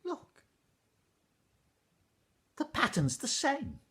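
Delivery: put-on high, loud, tumbling boy's voice; a boy bursting to show his find; excited boy. Ash boy showing the weaver his shoes, high and excited.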